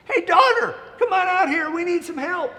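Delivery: high, loud call to the daughter; mother calling out. Acted. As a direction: holler across the yard. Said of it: "she called the daughter".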